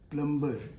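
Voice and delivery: 'प्लम्बर' with the b sounded; wrong pronunciation. Shown as a demonstration. Teacher quotes common usage, B sounded. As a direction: say 'प्लम्बर' as plum-ber, voicing the b. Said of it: "this is wrong pronunciation".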